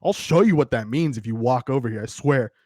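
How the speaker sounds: a hint of someone else's uppity challenge; Krug. Player imagining castmate answering "my body is my weapon", lightly imitated voice. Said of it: "think in Krug's voice".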